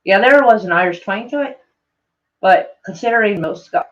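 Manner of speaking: shaky attempt at Scottish, slipping into Irish; Scottish accent turning Irish. Shown as a demonstration. Streamer reading a comment, Scottish accent sliding into Irish. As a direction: let the Scottish accent drift towards Irish. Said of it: "it's turning more Irish than anything".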